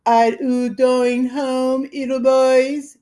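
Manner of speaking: mock a little girl teasing the boys; shrill girlish voice. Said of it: "yelled Billy".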